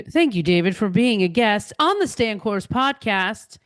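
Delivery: polished radio host sign-off. Shown as a demonstration. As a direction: thank the guest like a radio host. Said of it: "with my radio voice".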